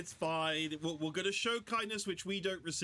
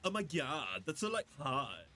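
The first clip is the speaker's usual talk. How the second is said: put-on Valley Girl. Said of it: "That's kind of what Cosmic sounds like".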